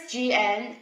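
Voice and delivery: gn as "guh-nuh", with a hard g; English hard gn. Shown as a demonstration. Teacher recalls her English lesson, "gn" said guh-nuh. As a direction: sound both letters of "gn", guh-nuh. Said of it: "in English are pronounced gn".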